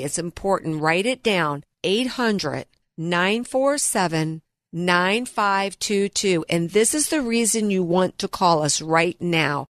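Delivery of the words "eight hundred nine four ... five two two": slow, deliberate phone number; over enunciating. Shown as a demonstration. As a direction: spell the digits out slowly. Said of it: "I'm gonna say that one more time slowly".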